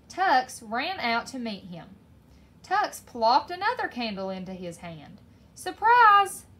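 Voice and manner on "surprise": high, loud surprise shout; excited shout. A narrator's reading. McWhiskers surprising P J with a candle, shouted. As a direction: shout it out, drawn long and high. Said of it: "Tux shouted".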